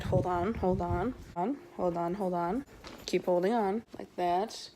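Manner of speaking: breathing hard while moving; panting from the effort of climbing. Real, not acted. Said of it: "Sorry, I'm breathing really hard".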